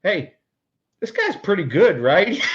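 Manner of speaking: a retold line that breaks into laughter at the end; laughing quote. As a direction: let the laugh burst through on right. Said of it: "Burbs goes".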